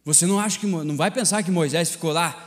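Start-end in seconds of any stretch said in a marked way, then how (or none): none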